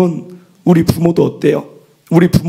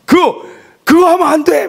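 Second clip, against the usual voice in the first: high, louder firm rebuke; stern scolding; 11 semitones higher, 3 dB louder than usual. Retold or imitated. Father scolding daughter in a raised, stern voice. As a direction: lay down the law to the child. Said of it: "막 하면서 막 했더니".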